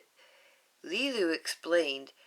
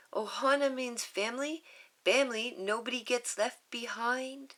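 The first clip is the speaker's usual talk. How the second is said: put-on higher, earnest child voice; little girl voice; 6 semitones higher than usual. Lilu reminding Nani of Ohana, higher child voice. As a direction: recite it like a sacred rule.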